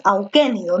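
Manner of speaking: auquénido stressed on QUÉ; stress on third-last syllable. Shown as a demonstration. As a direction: put the force of auquénido on QUÉ. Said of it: "la fuerza de voz está en la antepenúltima".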